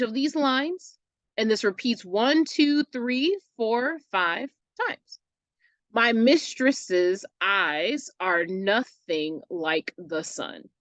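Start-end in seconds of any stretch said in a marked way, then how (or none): 5.9-10.7 "My mistress's eyes are nothing like the sun" slowly, broken into separate syllables; measured, slow metrical reading with small gaps between syllables; syllable-by-syllable scansion. Shown as a demonstration. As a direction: read the line slowly, syllable by syllable, with "MIS", "eyes" and "NUTH" stressed. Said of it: "see how the syllables are broken down".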